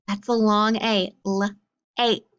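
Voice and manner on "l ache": "L, ache" split into first sound and rime; sounding out lake. Shown as a demonstration. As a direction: say the sound "L", pause, then "ache". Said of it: "make the word lake".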